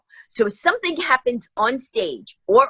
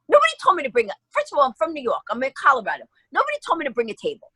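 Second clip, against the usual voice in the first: higher, exasperated protest; indignant retort; 4 semitones higher, much faster than usual. Retold or imitated. Telling organizers nobody said to bring a table, indignant. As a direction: push back, mildly indignant.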